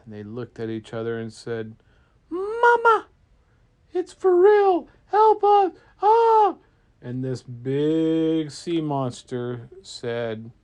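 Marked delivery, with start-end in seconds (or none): 2.3-6.6 very high, loud scream for help; hammed-up cry for mama; panicked screaming. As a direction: shriek in mock terror. Terrified boaters see sea monster.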